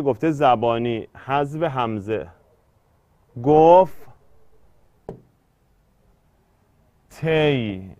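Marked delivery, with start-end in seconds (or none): 3.4-7.9 گفت تی split as gof, long pause, tey; گفت تی as two separated, held syllables; hamze dropped. Shown as a demonstration.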